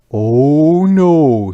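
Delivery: refusing peasant. Acted. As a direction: refuse at once.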